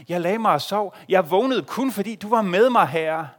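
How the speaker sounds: fervent loud prayer. Acted. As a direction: cry out the thanks. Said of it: "situationen er den". (højt og inderligt: "Jeg vågnede kun")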